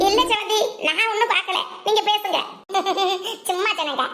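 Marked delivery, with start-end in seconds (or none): 2.7-3.4 low, soft chuckle. Acted. Onlooker teasing the couple, low chuckle. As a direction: chuckle quietly to yourself.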